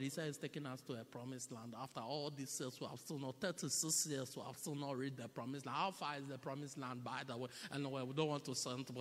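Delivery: quietly grumbling Israelite; a hint of a sulking complainer; murmured grumbling. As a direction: grumble low so Moses can't hear. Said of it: "They murmured against him".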